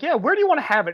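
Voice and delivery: high, loud officer's question; high-pitched mock officer asking; imitated cop. Voices the cop's question.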